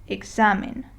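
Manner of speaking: examen stressed on its middle syllable, XA; next-to-last syllable stressed. Shown as a demonstration. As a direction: lean on the XA in examen. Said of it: "you stress the next to last syllable".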